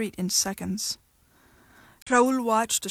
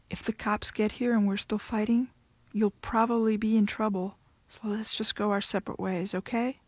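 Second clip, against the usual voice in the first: softer voice. Acted. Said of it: "her voice softer now".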